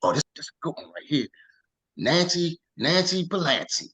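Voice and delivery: quick, eager pep-up before a call; self-hype. Retold or imitated. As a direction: psych yourself up, fast. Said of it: "he was hyping himself up".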